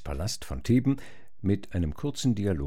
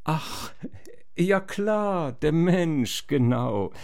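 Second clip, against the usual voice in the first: mock realisation; 8 semitones higher, slower than usual. Ödipus pretends he knew it.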